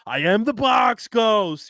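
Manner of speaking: Box Ghost voice. Retold or imitated. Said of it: "be like".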